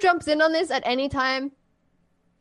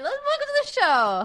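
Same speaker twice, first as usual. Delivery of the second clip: high, quick jump into the welcome; cheery rush into the show; eager welcome; 13 semitones higher than usual. Acted. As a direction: dive straight in. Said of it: "just like, right in".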